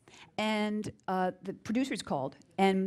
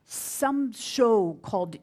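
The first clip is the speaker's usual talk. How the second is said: French accent imitation; 8 dB louder than usual. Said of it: "he had a very thick accent".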